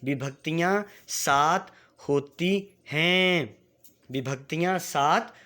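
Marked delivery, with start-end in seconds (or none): 0.0-3.6 slow, drawn-out model line for pupils to echo; slow teacher demonstration; slow for repeating. Shown as a demonstration. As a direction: say it slowly so the class can follow. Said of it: "मेरे साथ एक बार उच्चारण करना है".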